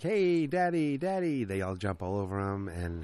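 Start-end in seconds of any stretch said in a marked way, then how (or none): 0.0-1.4 put-on very high, excited child calling Daddy; excited kid. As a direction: squeal it like a happy little boy. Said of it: "he's like".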